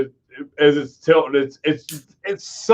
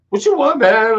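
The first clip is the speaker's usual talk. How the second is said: mock Asian accent; 7 semitones higher, 3 dB louder than usual. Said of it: "No, do the accent".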